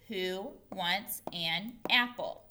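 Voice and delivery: word by word, evenly spaced; slow read-along. Shown as a demonstration. Teacher invites pupils to read with her, slow and separated. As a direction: read slowly so learners can join in.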